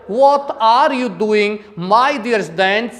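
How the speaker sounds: slow, deliberate Arab English accent; Arab-accent demonstration. Shown as a demonstration. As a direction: imitate Arab English, drawn out. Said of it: "इस प्रकार से अरब countries में बोला जाता है".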